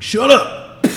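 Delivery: sudden high, loud shout; angry shout. Acted. Big dwarfless game master snapping at a laughing goblin, angry shout. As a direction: shut the goblins up with a burst. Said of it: "straight up backhands one of them".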